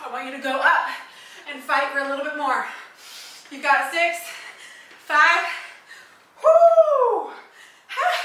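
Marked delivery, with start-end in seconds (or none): 3.5-8.1 countdown ending in a whoop; excited shout. Real, not acted. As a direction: cheer on the last reps. Counting down final reps.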